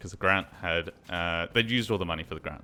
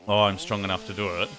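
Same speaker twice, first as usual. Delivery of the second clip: mocking quote; faster than usual. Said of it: "It's not a matter of, like".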